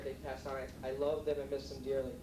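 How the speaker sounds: quiet, choked-up voice, fighting tears. Real, not acted. Son remembering his late parents at the banquet, choked up. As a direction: hold back tears as you speak of lost parents. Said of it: "they all choked up".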